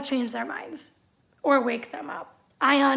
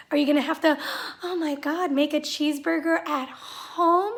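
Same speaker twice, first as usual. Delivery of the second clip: mock sympathy. Sarcastic pity for Brenda.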